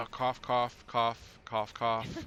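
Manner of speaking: spoken cough cough; saying cough instead of coughing; fake cough. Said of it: "Hang on".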